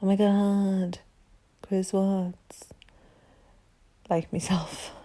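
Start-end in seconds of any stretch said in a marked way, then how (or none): 0.0-2.6 softer, breathy awe at a name; awed whisper. Retold or imitated. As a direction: whisper the name like a gasping fan. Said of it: "have the world going".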